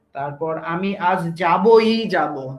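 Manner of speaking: slow, with the stress landing on যাবই; emphatic demo. Shown as a demonstration. Teacher showing students how emphasis sounds, slowly, stressing যাবই. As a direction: lean hard on যাবই and draw the sentence out slowly. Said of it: "পদকে জোরালো করা হয় বলক দ্বারা".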